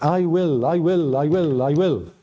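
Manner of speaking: "I will" hammered each time; preacher pounding out "I will"; repeated emphasis. Shown as a demonstration. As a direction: drive home each "I will". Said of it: "He's emphasizing something".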